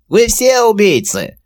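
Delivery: very high, slow creaky goblin. A narrator's reading. Captive goblin answering the commander, creaky high voice. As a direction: spit it out like a nasty little goblin. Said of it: "скрипучим голосом".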